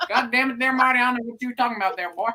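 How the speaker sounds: quick put-on southern retort; mock southern accent. Denying it to Marty, mock southern accent. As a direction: answer back in playful southern. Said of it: "Why are you giving me a southern accent?".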